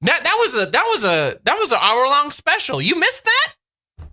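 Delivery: playfully feigned shock, lifting at the end; mock incredulity. Viewer teasing a parent about an Elmo episode, mock incredulous. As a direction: pretend you can't believe they missed it.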